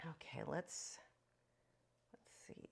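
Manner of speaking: whispered aside to herself; quiet whisper. Real, not acted. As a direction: breathe it under your breath. Whispering while drawing.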